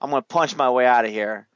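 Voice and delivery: retold retort. Retelling the king refusing to wait, mock defiance. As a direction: imitate a brash newborn, easing after the outburst. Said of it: "he's like".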